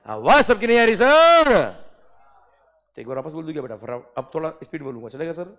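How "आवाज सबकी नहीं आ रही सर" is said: higher, louder mock complaint; mock student shout. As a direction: play a whining student calling out. Imitating student complaining about audio.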